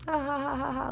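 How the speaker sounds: high, spoken-out ha-ha laugh; imitated laughter. She shows how she laughed at everyone, mock laughter. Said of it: "so I started laughing".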